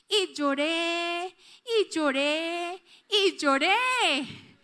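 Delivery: slow, drawn-out tearful words. Real, not acted. A mother reliving her tears over her son, slow and tearful. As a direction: let each line ache, slow and heavy. Tells how she wept.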